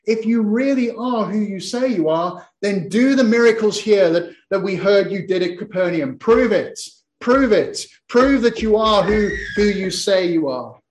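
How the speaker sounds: insistent demand, repeating the imperative; challenging demand. Acted. Crowd challenging Jesus to do miracles, insistent. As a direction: press him for proof, phrase after phrase.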